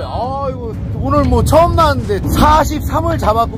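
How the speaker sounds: channel outro. Acted. Outro address to viewers.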